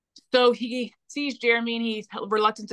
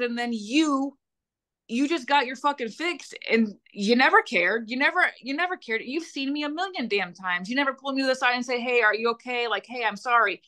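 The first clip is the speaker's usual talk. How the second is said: higher, rising retold fury at the stepmom; angry confrontation; 4 semitones higher than usual. Victim confronting stepmom who never cared, heated and higher. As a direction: throw the accusations at her, pitch climbing.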